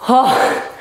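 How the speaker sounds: breathless gasp after exercise; puffing, winded after the drill; out of breath. Real, not acted. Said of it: "I'm out of breath".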